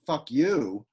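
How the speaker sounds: light "fuck", stress on "you"; iamb stress. Shown as a demonstration. Poet showing the iamb rejoinder, stress on last word. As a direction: land on "you", not on "fuck". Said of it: "whose rejoinder is either an I am".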